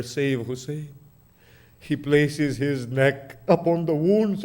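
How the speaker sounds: grieving sermon narration, rising and falling in waves; mournful recitation. Acted. Preacher recounting Hussein's death to mourners in lamenting recitation. Majlis recitation of Karbala martyrdom.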